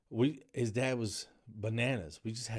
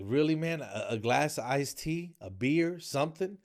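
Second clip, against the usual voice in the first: exasperated plea; 6 semitones higher than usual. Retold or imitated. To stingy customers, asking for a tip, exasperated. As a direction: beg the cheap customers with disbelief. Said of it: "I'm like".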